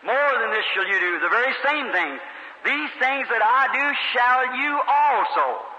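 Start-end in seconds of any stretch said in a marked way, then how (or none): 2.6-5.7 very slow, intoned scripture; preacher intoning Jesus' promise slowly; solemn scripture quote. Acted. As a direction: stretch every word out reverently. Quoting Jesus again.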